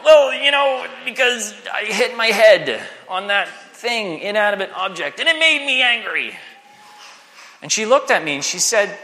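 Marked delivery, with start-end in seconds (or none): 0.0-6.4 put-on defensive teen. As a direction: argue back like a stubborn fourteen-year-old. Teen self voiced in a story.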